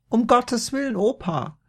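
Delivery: entsetzt, viel höher und lauter; ganz hohe Stimme. A narrator's reading. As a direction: rufe mit plötzlich hoher Mädchenstimme. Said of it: "bekam plötzlich eine ganz hohe Stimme". (Maria ruft mit ganz hoher Stimme)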